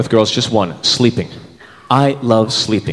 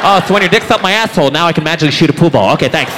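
higher, sarcastic mock thanks; sarcastic girl; 3 semitones higher than usual. Date mocking the Casanova's lesson, sarcastic. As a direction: give it a dry sarcastic brush-off.

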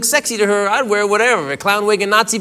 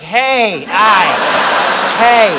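startled hey; much slower than usual. Retold or imitated. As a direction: yelp at a sudden tug. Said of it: "be like".

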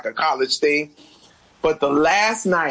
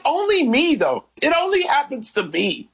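mock self-pity; 11 semitones higher than usual. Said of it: "I was just like".

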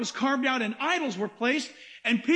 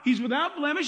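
ordinary talk

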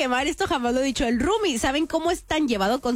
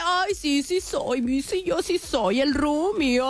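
laughing mom; 2 semitones higher, slower than usual. Retold or imitated. Daughter mimicking mom delighted by roomie's teasing, mock giggly. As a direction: mimic mom laughing along, drawing out the end. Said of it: "Mi mamá se ríe y dice".

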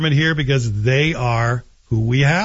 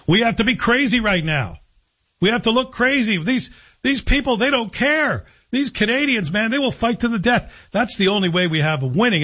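fired up; 6 semitones higher than usual. Real, not acted. Rallying Canadians to fight.

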